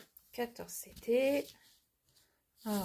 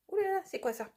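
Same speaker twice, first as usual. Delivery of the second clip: mock dismay; 10 semitones higher, faster than usual. Real, not acted. Dismay at the chart, first take.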